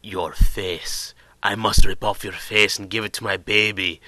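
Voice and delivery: a hint of a creepy ghost voice; creepy prison voice. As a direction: lightly imitate the spooky speaker voice. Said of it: "there's these voices going".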